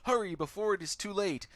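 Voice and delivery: a light touch of frantic doctor; straitjacketed madman. Acted. Patient in a straitjacket begging the player, lightly voiced urgent plea. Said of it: "He looks up at you and mumbles".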